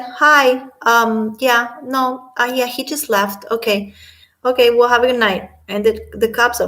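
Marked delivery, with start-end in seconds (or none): 0.0-5.5 higher, louder breezy casual voice; breezy, casual brush-off at the door; mimicking Amber. Imitating Amber breezily dismissing police at door. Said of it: "And then Amber is like".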